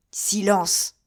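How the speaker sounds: a loud, sharp warning; urgent hush. A narrator's reading. D'Artagnan hushing his friends as the governor comes. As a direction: cut them off at once.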